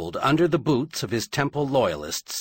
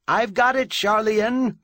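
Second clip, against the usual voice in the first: high, raised shout; urgent shout; 10 semitones higher, 3 dB louder than usual. A narrator's reading. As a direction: call out urgently to her, pitched well up. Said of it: "Carlson Reyes shouted".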